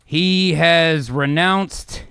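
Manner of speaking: slow, deliberate narration; weighty storyteller pacing; dramatic scene setting. Acted. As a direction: spell out the vow slowly, phrase by phrase. Game master's dramatic scene setting.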